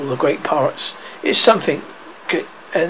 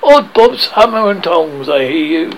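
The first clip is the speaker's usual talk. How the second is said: Peter mimicking Hook's voice; imitating Hook; 5 dB louder than usual. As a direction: copy the captain's voice. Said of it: "answered Hook's voice".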